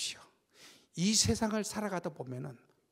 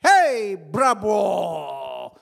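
loud, drawn-out mocking bravo; mock cheer; 9 dB louder, much slower than usual. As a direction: jeer like teammates clapping. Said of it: "이런 말 한다". (크게 길게 조롱하는 환호)

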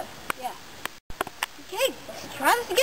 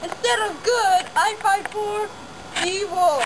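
slow, drawn-out hero proclamation; superhero address. Pretend. Kid superhero greeting the citizens of the world, grand announcement. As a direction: declaim it like a homemade superhero.

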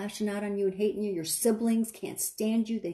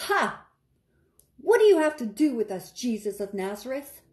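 a lightly voiced demon crying out; loud demon cry; 3 semitones higher, 4 dB louder than usual. Demon crying out at Jesus of Nazareth, mild loud cry. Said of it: "He cried out with a loud voice".

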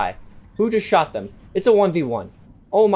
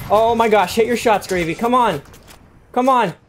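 loud, high urging; urgent cheering; 8 semitones higher, 7 dB louder than usual. Real, not acted. Gamer urging teammate Gravy in the final fight, loud cheer. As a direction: push a teammate on with real urgency.

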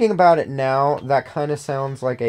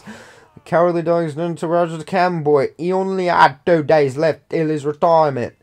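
put-on pirate accent. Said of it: "I shouldn't try to do an accent".

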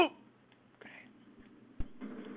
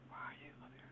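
whispering; 3 semitones lower, 25 dB quieter, much faster than usual. Real, not acted. Spotting her nearby.

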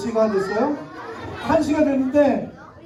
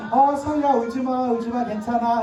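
soothing dad. Pretend. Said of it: "아빠는 옆에서".

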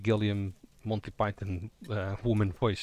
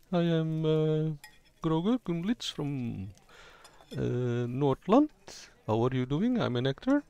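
lightly voiced young actor from Nordland; a hint of a higher character voice; 4 semitones higher than usual. Shown as a demonstration. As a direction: introduce yourself a little higher, hesitantly. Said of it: "talk a little bit higher".

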